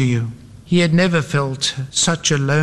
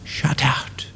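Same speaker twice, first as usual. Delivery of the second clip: hushed, ominous whisper; soft, breath-only echo of judgment; 4 semitones lower, 6 dB quieter than usual. A narrator's reading. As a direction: whisper it like a final sentence. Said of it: "whispering those most horrifying of all judgments".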